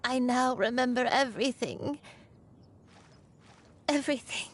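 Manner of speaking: holding back sobs; tearful. Acted. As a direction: voice thick with tears. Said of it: "Granny, please don't cry".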